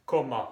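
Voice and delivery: "comment" dito /kɔmɑ̃/, nasal no fim, sem T; French comment. Shown as a demonstration. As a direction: diga "comment" como /kɔmɑ̃/, caindo no fim. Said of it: "Y primero la pronunciación".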